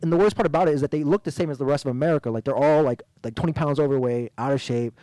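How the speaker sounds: mild heel taunt, brisk pace; a touch of wrestling bad guy; sneering wrestling villain. Real, not acted. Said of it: "You sound like a wrestling heel right now".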